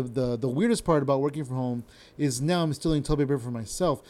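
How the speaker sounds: slurred "weirdest part about working from home" run together; slurred delivery. Shown as a demonstration. Showing viewers how the joke comes out slurred. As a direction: mush "stealing toilet paper" into one slur. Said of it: "it's hard for me to say it like that".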